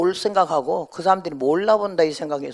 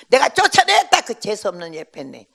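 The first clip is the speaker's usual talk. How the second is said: scornful boast; 3 semitones higher, 7 dB louder than usual. Retold or imitated. Old mother telling the pastor she chased the woman out, loud and scornful. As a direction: brag that you threw her out.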